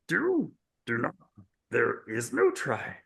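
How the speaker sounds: a hint of Yoda's croaky wisdom, unhurried; playful mock Yoda line, slowed down. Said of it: "I wasn't too embarrassed to do that".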